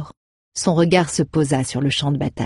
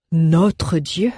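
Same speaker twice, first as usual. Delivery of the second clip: offended. Acted. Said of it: "s'offusqua Aéditus".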